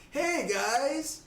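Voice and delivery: loud, high call across the street. Acted. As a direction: hail them cheerfully from afar. Stags calls out to group.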